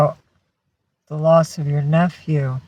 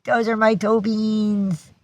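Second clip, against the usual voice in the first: lightly higher playful dog voice; voicing the dog; 4 semitones higher than usual. Owner speaking for her dog, showing off his paws playfully. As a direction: speak for the dog, proud and silly. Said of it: "He says".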